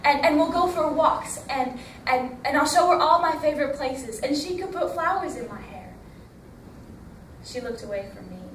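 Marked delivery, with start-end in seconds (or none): 0.0-5.9 put-on eager child. Tilly dreams of meeting mother.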